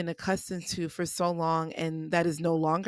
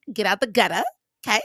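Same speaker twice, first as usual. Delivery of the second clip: laughing tease; 2 semitones higher, 5 dB louder, much faster than usual. Real, not acted. Teasing the listener about threesome.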